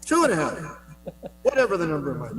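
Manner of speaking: quick, auctioneer-like patter. Real, not acted. Organizer checking the number with the commissioner, auctioneer-like. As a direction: rattle off the figure like an auctioneer. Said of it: "You sound like an auctioneer".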